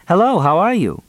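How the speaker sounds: high, singsong sample greeting; mock polite greeting. A narrator's reading. Mock quote of a missing greeting.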